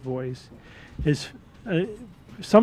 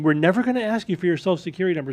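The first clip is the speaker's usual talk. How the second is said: scammer reassurance; 3 semitones higher, faster than usual. Retold or imitated. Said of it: "they'll open up saying".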